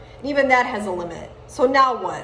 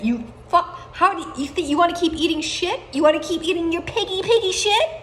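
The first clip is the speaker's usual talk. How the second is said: mocking taunt; 7 semitones higher than usual. Taunting rant at enemies.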